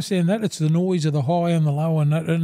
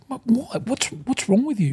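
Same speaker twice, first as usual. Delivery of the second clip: higher, incredulous imitation of the wife; imitating a bewildered wife, pitched higher; baffled wife; 6 semitones higher than usual. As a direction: ask it like she can't believe him. Wife's retold baffled reply.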